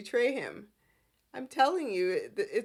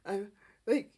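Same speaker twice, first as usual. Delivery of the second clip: mock rant; 4 dB louder than usual. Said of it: "he goes off on Adam".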